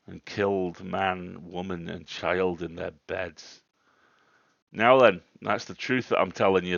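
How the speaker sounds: put-on worked-up rustic old man, punching words loudly; old countryman getting quite excited. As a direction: insist on it to a doubter. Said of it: "getting quite excited that I didn't disbelieve him".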